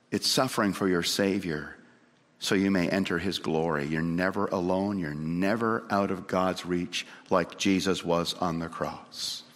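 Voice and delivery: earnest pastoral comfort; solemn reassurance. Real, not acted. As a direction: bring it down low and assure them. Preacher reassures suffering believers.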